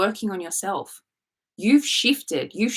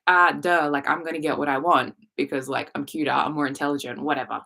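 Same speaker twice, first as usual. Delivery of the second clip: lower-pitched sassy self-assurance; 5 semitones lower than usual. Acted. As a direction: act cocky and dismissive, voice dropped. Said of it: "be a bit sassy and be like".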